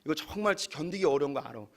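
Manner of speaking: God gently reasoning with Jonah; gentle God voice. Acted. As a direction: speak as a gentle father correcting kindly. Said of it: "어떻게 이해하시면 좋냐면".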